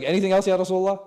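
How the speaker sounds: imitating a follower pressing again, loud; insistent questioner. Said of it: "He's like".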